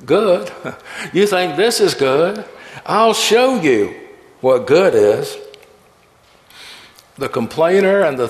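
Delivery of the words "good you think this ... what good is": a touch of God's joyful laughter, high; delighted laughing. Acted. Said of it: "the Almighty roared with delightful laughter".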